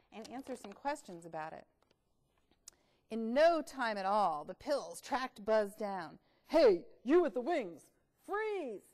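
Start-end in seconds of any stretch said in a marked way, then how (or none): 3.1-6.2 story reading. Acted. Reads the story aloud. 6.5-8.8 loud commanding pill. Acted. Pills catching Buzz the bug, commanding. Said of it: "use other voices".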